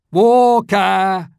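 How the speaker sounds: high, loud disbelieving cry; exclaimed. A narrator's reading. Boy doubting Scrooge's order, loud disbelieving cry. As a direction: shout it in disbelief. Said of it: "exclaimed the boy".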